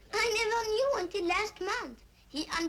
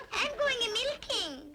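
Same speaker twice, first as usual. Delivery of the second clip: milkmaid of the rhyme; 5 semitones higher than usual. Acted. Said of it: "she said".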